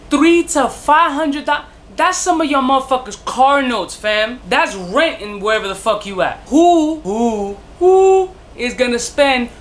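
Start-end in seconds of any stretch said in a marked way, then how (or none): 0.1-1.5 "Three to five hundred" slow, "Three" punched high and loud; stress on three. Real, not acted. Reviewer repeats the price slowly, hitting "Three" hard. 6.5-8.3 indignant shout. Real, not acted. Ranting about price.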